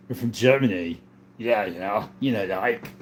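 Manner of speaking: put-on British accent, lilting. Denying being British to a viewer, British accent. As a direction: play at being British, mate. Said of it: "Or, sorry, that accent".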